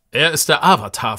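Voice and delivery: proud announcement. Acted. Iolo presents the Avatar to the mayor, proudly. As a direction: announce it with pride. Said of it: "verkündet Iolo stolz".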